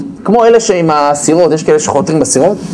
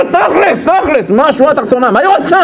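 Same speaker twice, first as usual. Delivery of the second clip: mocking impatient husband; 7 semitones higher than usual. Husband mocked, impatient for bottom line.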